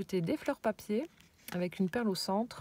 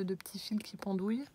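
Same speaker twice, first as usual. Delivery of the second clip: whisper; 5 dB quieter than usual. Real, not acted. Admiring a craft detail aloud.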